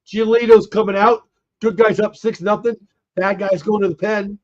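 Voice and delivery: raspy, strained from calling the game; hoarse voice. Real, not acted. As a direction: push through a worn-out voice. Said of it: "I'm losing my voice".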